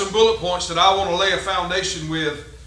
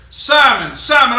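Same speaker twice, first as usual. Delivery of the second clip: loud pulpit call of the name; emphatic call; 2 semitones higher, 6 dB louder, slower than usual. Acted. Preacher voicing Jesus.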